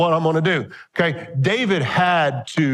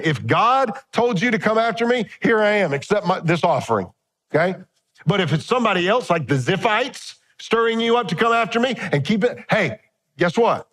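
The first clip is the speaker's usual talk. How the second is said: higher, pointed dare; paraphrased challenge; 6 semitones higher than usual. Retold or imitated. David daring Saul to own who sent him. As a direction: lay it down as a challenge. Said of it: "David's basically saying".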